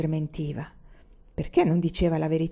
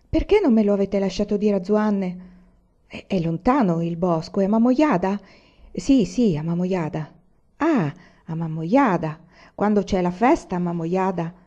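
an eager little boy, voiced a touch louder; chattering child; 4 dB louder than usual. Anania chatters eagerly at his mother on the road, lightly voiced child. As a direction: rattle off questions like an excited child.

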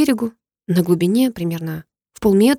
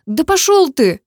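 much higher, louder sobbed curse; sobbing outburst; 9 semitones higher, 5 dB louder, slower than usual. Acted. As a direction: fling it out through a sob. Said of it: "всхлипнула она". (всхлипывая, со злостью)

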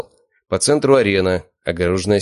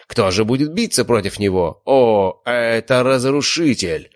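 roaring announcer; 5 semitones higher, slower than usual. A narrator's reading. Announcer presenting the champion dog, roaring. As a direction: roar the name out slowly. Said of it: "заревел ведущий".

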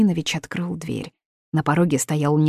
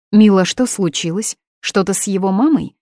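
louder, rising alarm; mother anxious about news, louder; worried mother; 3 semitones higher, 6 dB louder than usual. Acted. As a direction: ask anxiously.

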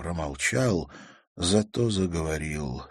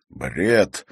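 barked; 6 dB louder than usual. A narrator's reading. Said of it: "рявкнул незнакомый мужской голос".

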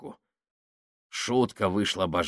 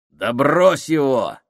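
harsh shout; 5 semitones higher, 6 dB louder, slower than usual. A narrator's reading. Saks yelling to drop him.

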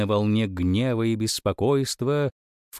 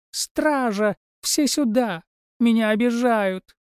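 put-on spoiled girl yelling; 12 semitones higher, slower than usual. A narrator's reading. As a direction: shriek for the guards like a spoiled princess. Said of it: "завопила девчонка и затопала ногами". (капризно зовёт стражу)

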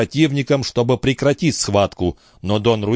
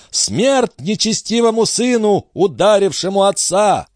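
the crowd condemning the son who struck his father; mob cry; 10 semitones higher than usual. Acted. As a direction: shout it with the enraged mob. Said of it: "в один голос возгласила толпа".

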